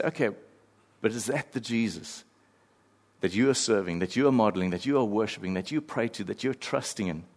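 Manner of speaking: quiet challenge. Acted. Author challenging the reader, soft and probing. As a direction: press gently on the heart. Mark's challenge voiced softly.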